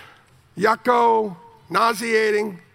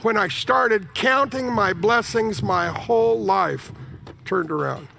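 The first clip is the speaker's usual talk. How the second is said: slow, thoughtful repeat; slower than usual. Shown as a demonstration. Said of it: "repeated slowly".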